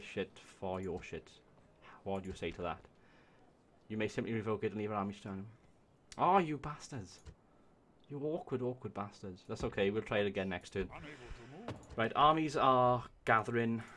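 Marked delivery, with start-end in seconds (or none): 6.2-9.4 slow, higher exasperated groan; real annoyed exclamation; frustrated. Real, not acted. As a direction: drag it out at the refusal. AI refuses his diplomacy offer.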